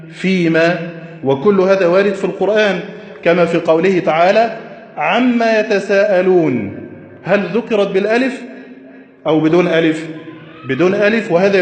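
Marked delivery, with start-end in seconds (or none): 5.0-6.8 slow recitation. Acted. Quoting a Quranic verse.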